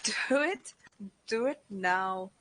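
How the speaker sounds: hint of an Austrian Arnold accent, slowed on do it now; lightly mock Arnold Schwarzenegger's Austrian accent, slow and punchy. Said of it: "Arnold accent".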